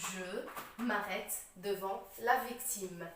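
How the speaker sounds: slow, low model sentence, "m'arrête" in one word; elided je m'arrête. Shown as a demonstration. Teacher modelling the corrected sentence, slow, "m'arrête" elided. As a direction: read slowly, eliding "me" into "m'arrête". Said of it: "c'est plus facile à prononcer".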